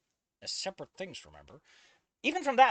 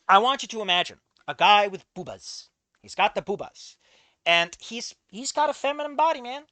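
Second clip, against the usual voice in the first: mock-outraged loud rant; 3 semitones higher, 9 dB louder than usual. Real, not acted. Mocking the fic's boobas.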